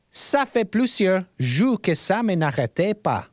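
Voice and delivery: French read aloud in a put-on accent. Shown as a demonstration. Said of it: "like, a French accent because I'm reading French".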